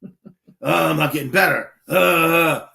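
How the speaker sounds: imitating a frustrated student's groans; mock pissed-off grumbling. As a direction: groan and complain like a fed-up student. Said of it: "he's getting all pissed off".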